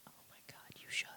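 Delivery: breathless excited whisper. Real, not acted. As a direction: whisper it, thrilled by the idea. Excited hushed reply.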